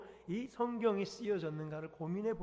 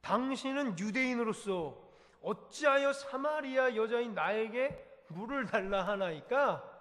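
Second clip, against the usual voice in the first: higher, slow, indignant Samaritan woman; defiant woman; 5 semitones higher, 4 dB louder than usual. Acted. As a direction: challenge the stranger, slowly. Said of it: "이 여인은 이렇게 반응을 합니다".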